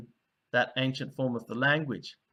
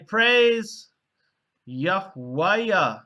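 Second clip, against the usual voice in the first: proclaiming praise; 4 semitones higher, 5 dB louder, much slower than usual. Shown as a demonstration. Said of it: "And then they'd say".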